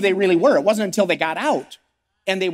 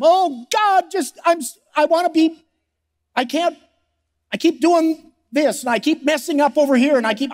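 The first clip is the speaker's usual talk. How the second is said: anguished prayer; 5 semitones higher than usual. Retold or imitated. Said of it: "People cry all the time, pray all the time".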